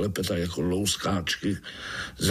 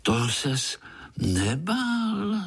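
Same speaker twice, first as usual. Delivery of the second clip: put-on wondering child; 9 semitones higher, much slower than usual. A narrator's reading. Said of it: "divil se Pája".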